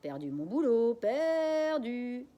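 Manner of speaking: high, loud parrot squawk. Acted. Parrot Jaco repeating father's words, loud squawk. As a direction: screech it like a parrot.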